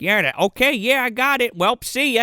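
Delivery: light up and dash off, voice lifted; sudden epiphany. Retold or imitated. Imitating a detective who just had an epiphany, excited. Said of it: "like, an epiphany".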